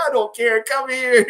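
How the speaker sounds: high, loud mock insistence; imitated brash insistence. Super to tenant with covid, imitated loud insistence. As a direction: wave away the objection loudly.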